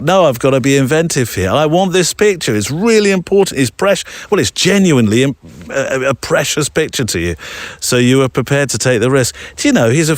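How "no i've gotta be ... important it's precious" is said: excited. Retold or imitated.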